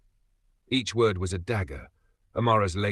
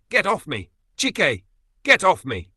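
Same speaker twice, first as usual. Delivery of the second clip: much higher, louder yells; furious shout; 8 semitones higher, 6 dB louder than usual. Acted. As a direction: shove her off with your voice. Husband shoves wife away.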